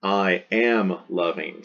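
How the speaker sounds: slow, stress on am; deliberate slow demo of the progressive; progressive form. Shown as a demonstration. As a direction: lean on am, I am loving. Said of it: "English also has a present progressive form".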